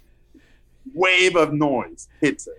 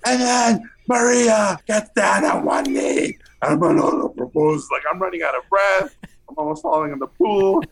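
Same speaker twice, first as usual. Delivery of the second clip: mock yelling pitch; 8 semitones higher than usual.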